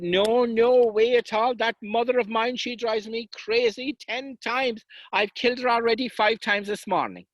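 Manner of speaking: exasperated refusal. Acted. Sean refusing, mock exasperated.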